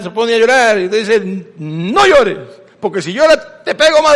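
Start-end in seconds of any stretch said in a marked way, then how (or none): 1.6-4.1 a touch of a stern parent, rising high on the threat; mock parent threat. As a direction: play the scolding parent, lightly. Padre amenaza a niña que llora. (el padre amenaza a la hija que llora: regaño fingido y leve)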